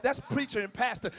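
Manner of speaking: usual speaking voice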